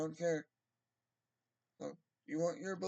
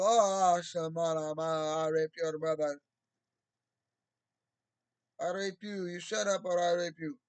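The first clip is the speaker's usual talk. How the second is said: mock threatening voice; 5 dB louder than usual. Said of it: "they just, like, talk like that".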